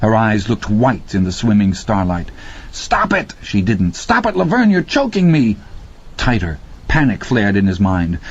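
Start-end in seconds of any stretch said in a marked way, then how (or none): 2.7-3.3 high strained cry for her to stop; panicked cry. A narrator's reading. Randy choked by Laverne's drowning grip, high panicked cry. 3.9-5.6 high strained choking plea; choking panic. A narrator's reading. Randy choked by Laverne, high strained gasping plea.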